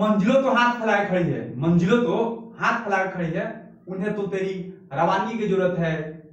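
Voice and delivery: slow poetic recitation of a motivational line; recited verse. Acted. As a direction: declaim it like a stirring couplet.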